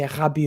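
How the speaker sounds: Rabiot with a raspy French R at the back of the throat; French uvular R. Shown as a demonstration. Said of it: "raspy R we have".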